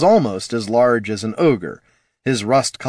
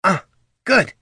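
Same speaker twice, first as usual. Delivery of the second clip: high, relieved little exhale of words; 10 semitones higher than usual. A narrator's reading. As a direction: let relief into a smile. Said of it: "said Poldo with a relieved smile".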